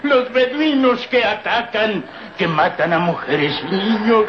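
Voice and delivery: high, frantic begging for his life; old servant begging the strangers not to kill him, terrified; terrified pleading. Acted. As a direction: plead like a hunted animal. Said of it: "corría temeroso entre las ruinas".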